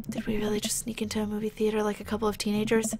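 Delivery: quick amused whisper. Pretend. Moviegoer whispering to friend mid-film. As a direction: rush it out under your breath.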